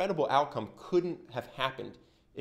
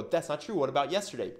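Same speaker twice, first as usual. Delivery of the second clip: defensive; 3 semitones higher than usual. Retold or imitated. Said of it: "he can get defensive and go".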